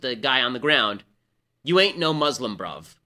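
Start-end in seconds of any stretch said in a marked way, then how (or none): 1.6-3.0 light mock-Cockney yell, dropping on the last word; imitated Cockney accent. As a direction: call it out like a Cockney passer-by. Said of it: "do it in a Cockney accent".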